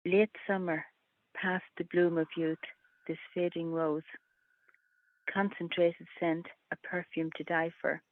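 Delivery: measured poem recital; unhurried verse, phrase by phrase; tanka reading. Acted. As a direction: read short lines with a pause after each. Reads own tanka aloud.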